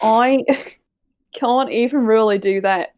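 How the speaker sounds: slow, half-successful New Zealand accent; attempted New Zealand accent. Shown as a demonstration. Co-host demonstrating to friends, shaky attempt at New Zealand accent. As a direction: have a laughing go at New Zealand. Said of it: "You do a New Zealand accent".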